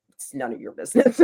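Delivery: high retort, about to laugh; mock retort. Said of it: "I'm like".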